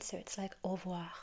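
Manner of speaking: "au revoir" run together as a single smooth word; whispered "au revoir" blended into one; linked as one word. Shown as a demonstration. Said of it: "as if it were one word".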